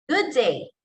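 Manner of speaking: "Good day" rising, then sliding down; slide intonation. Shown as a demonstration. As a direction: glide the pitch up and down through "Good day". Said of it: "then you slide it down".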